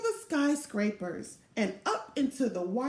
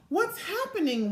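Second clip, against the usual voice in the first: wondering; 6 semitones higher than usual. A narrator's reading. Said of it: "wondering Frida".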